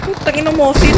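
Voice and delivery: loud, high excited curse; excited shout. Real, not acted. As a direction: yell it out in glee. Finds a Mosin rifle. (sigaw sa tuwa)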